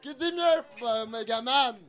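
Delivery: auctioneer calling out bids. Pretend. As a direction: call each bid like an auctioneer. Runs a mock auction.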